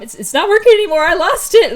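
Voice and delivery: high, loud, rushed fluster; acted panic. Thunder loses control of her powers, high and panicky.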